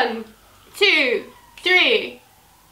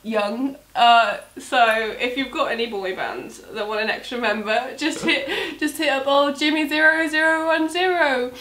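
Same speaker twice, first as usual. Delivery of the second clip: put-on Brummie accent. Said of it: "That's the Brummie accent".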